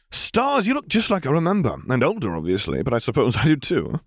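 high, eager greeting voice; excited young man. Acted. Justice greeting his long-lost uncle, high and eager. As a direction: gush at seeing him again.

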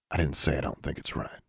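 low, soft grudging mutter. A narrator's reading. Brother defensive to sister, muttering. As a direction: mutter it under the breath. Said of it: "he muttered".

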